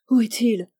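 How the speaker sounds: loud anxious question to the doctor; urgent plea. Acted. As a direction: ask where he is, urgently. Charlotte urgently addresses the doctor.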